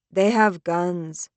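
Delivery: slow, simply stated; numb, distant. Acted. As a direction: say it simply, as if numbed. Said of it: "She sounds numb, distant".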